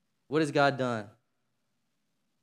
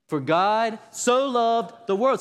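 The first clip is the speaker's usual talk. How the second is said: higher and louder, drawn out; raised congregational call; louder, slower repeat; 9 semitones higher, 7 dB louder, slower than usual. Shown as a demonstration. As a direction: say it again with more force. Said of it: "Say that again".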